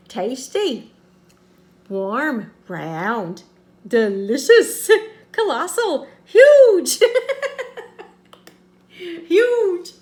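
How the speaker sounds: oversell each word, laughing; hammed-up praise. Real, not acted. Hamming up adjectives, cracking up.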